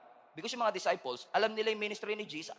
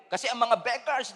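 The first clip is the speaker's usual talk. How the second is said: ordinary talk, nothing marked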